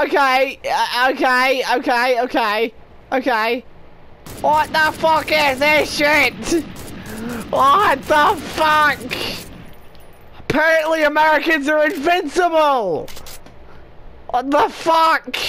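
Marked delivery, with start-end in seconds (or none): 4.4-15.4 exasperated disbelief. Real, not acted. Teammates still invincible.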